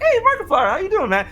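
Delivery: high-pitched, easygoing hello; friendly greeting. Retold or imitated. Man greeting an acquaintance at a party, friendly. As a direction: act out a light party greeting.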